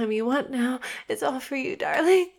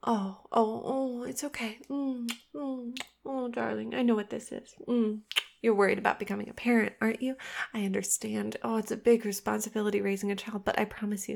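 much softer, hushed and coaxing; soft soothing; 3 semitones lower, 7 dB quieter than usual. Acted. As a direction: soothe him close to the mic. Soothing a frightened partner.

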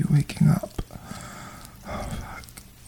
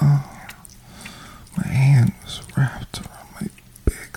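intimate breathy ASMR whisper. Acted. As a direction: whisper it close to the mic. Holds a whisper throughout.

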